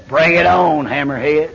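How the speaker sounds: stare the devil down and say it coldly; a calm, chilling challenge to the devil; cold defiance. Retold or imitated. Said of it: "I look him cold in the face and tell him".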